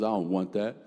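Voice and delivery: low sulky refusal; a hint of a bored, sullen kid. Brother refuses bread from dad, low and sulky. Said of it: "He goes".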